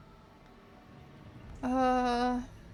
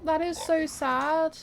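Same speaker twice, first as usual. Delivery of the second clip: slow, saddened voice; moved and sorry; genuinely sad; 3 semitones higher, slower than usual. Real, not acted. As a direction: let the sadness slow you down. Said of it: "I feel so awful".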